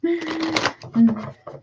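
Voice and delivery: high teary laugh, half crying; tearful laugh. Real, not acted. Reader laughs through her tears at a viewer's comment.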